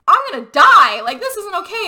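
loud, high mock wail; hammed-up protest of someone terrified; retold panic. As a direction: cry out in acted alarm. Holt panics at the wires.

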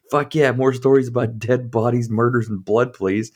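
loud eager party guest; mock excited cheer.

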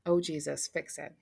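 soft, trailing murmured prayer; softly praying. Retold or imitated. Colleague softly praying over her crying friend. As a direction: quietly pray it under your breath. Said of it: "said softly".

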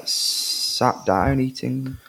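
drawn-out sat down eating; slow drawn out. Shown as a demonstration. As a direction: stretch sat down eating slowly. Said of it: "Yeah, sat down eating".

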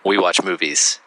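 low, sexy radio voice. Real, not acted. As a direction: purr it low and sexy like a late-night host. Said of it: "Why do I sound so low and sexy?".

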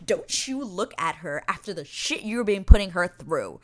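worked-up, emphatic telling-off; heated scolding. Acted. Fan scolding Anthony for toying with Kate, heated. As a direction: scold him, leaning hard on key words. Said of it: "Sorry, I got heated".

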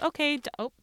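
sudden startled break, pitch jumps up. Real, not acted. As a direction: caught off guard mid-sentence. Arm hits vacuum while recording.

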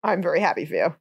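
deadpan, not impressed at all; sarcastic. Real, not acted. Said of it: "I can hear the sarcasm".

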